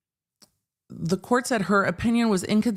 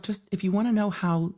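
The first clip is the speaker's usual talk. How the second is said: lecturing retort; 6 semitones higher than usual. Retold or imitated. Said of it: "I'm like".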